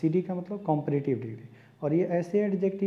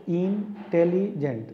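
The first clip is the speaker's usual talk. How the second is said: slow syllable-by-syllable; much slower than usual. Shown as a demonstration. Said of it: "break करते हैं".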